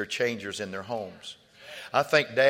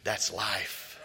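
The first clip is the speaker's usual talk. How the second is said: gentle counsel; 4 dB quieter than usual. Retold or imitated. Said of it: "I said".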